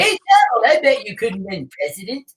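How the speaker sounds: high, teasing dare to Donald; mock crony. Host imagining a friend daring Donald to run. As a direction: goad him like a buddy at the table. Voicing a Mar-a-Lago crony.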